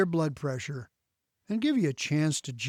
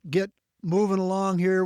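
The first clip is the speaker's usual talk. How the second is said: normal talking voice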